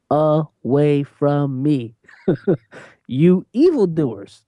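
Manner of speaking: slow, drawn-out dismissal with a laugh; a little extra. Acted. Preacher quoting Jesus to evildoers, slow and drawn out. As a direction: stretch it out, hamming it a little. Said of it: "A little extra there".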